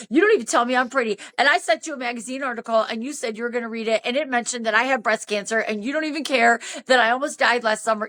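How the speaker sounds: rapid-fire retold grievances; mildly indignant, rushing through complaints; going off. Woman listing Dan's failings to him, mildly indignant. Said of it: "I went off on him".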